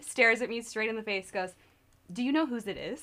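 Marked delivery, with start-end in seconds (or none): 2.1-3.0 put-on flat deadpan tone. Retelling the first thing the speaker's mom said to them, imitating a deadpan question. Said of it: "just deadpan".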